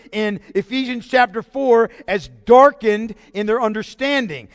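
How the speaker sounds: full-voice preaching; building preaching. Real, not acted. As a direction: preach it with rising force.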